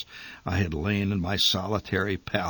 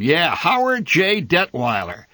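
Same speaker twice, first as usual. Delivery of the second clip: mock her source with derision; a hint of derisive scoffing father; derisive snort. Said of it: "my father snorted in derision".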